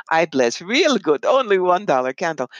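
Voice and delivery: mock Russian accent. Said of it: "the bad Russian accent".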